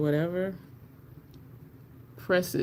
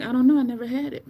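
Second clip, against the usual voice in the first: unsure reply; 6 semitones higher, 4 dB louder, faster than usual. Retold or imitated. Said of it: "I'm like".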